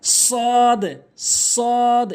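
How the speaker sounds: "সদ" with a long held vowel and released d; correct pronunciation. Shown as a demonstration. Teacher models the Arabic letter, correct long "সদ". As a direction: draw out "সদ" firmly, full heavy s. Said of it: "এভাবে সঠিক উচ্চারণ".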